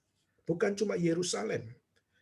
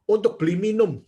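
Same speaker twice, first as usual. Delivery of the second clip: louder, higher imitation of rough talk; retold coarse speech; 4 semitones higher, 6 dB louder than usual. Preacher quoting a village donor's rough wording, coarse. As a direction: blurt it out bluntly, imitating the donor. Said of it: "Dia ngomongnya kasar sih".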